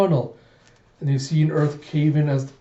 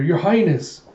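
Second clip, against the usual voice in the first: raised, louder acted call; retold cry, higher and louder; urgent call; 4 semitones higher, 5 dB louder, slower than usual. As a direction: call out to rouse someone, dramatised. Calling to unconscious princess.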